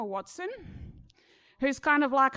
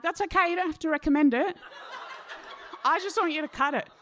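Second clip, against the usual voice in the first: laughing insistence; 4 semitones higher, faster than usual. Retold or imitated. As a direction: laugh it off and push on. Insisting to hesitant hairdresser.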